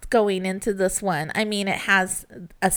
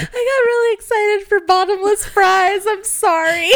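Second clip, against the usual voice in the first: high, loud, giggly; laughing; 11 semitones higher, 4 dB louder than usual. Real, not acted. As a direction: blurt it out, giggling. Laughing at her own joke.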